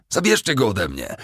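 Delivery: high-pitched cry for help; yelling. A narrator's reading. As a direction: yell to be rescued. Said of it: "wrzasnął".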